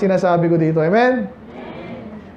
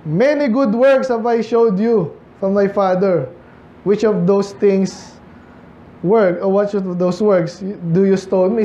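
scripture reading; slower than usual. Acted. Reads Bible verse aloud.

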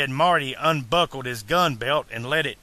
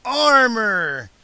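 high, loud youngster's amazement; excited boy; 9 semitones higher, 5 dB louder, slower than usual. A narrator's reading. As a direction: blurt it out in a high child voice. Excited boy marvels at armor.

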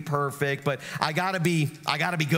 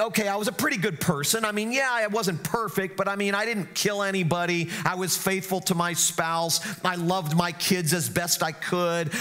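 higher, quick, self-assured listing of good deeds; smug self-justifying churchgoer; 4 semitones higher than usual. Retold or imitated. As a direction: rattle off your virtues like a proud churchgoer. Imagined self-righteous churchgoer.

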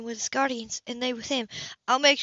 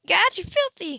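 higher, louder disgusted cry; angry shout; 7 semitones higher, 4 dB louder than usual. A narrator's reading. Anna to Cam, covered in grime, a higher angry shout. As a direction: fling it at him in anger. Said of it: "she shouted".

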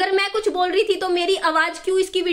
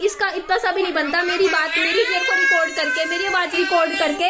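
tearful angry shout; yelling while crying over the video; crying outburst. Real, not acted. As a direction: shout it through tears.

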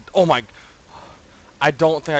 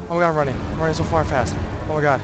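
scared while fleeing; 4 semitones higher, 4 dB louder than usual. Real, not acted. Running from monster.

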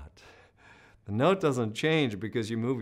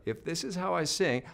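squeezed voice; 6 semitones higher than usual. Shown as a demonstration. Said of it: "if I talk like this".

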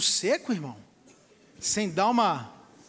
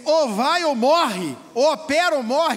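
slow, louder blunt ultimatum; stern ultimatum; 2 semitones higher, 6 dB louder, slower than usual. Retold or imitated. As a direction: lay down the choice hard. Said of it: "o médico falar assim pra você". (ultimato firme e lento)

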